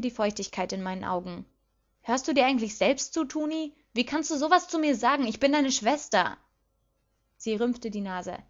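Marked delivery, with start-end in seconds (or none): 2.0-6.4 hurt, higher-pitched indignation; indignant protest. A narrator's reading. Lilly protests her sister's insults, hurt and indignant.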